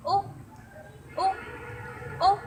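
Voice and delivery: the U sound held as a long oo in "U"; vowel sound demo. Shown as a demonstration. Teacher drills the class, sounding out the vowel.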